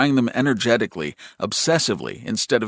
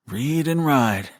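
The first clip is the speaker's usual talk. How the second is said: higher, slow sing-song; little brother's refrain; 4 semitones higher, slower than usual. A narrator's reading. Brother answering affection with his refrain, slow sing-song. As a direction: chant it back, drawn out.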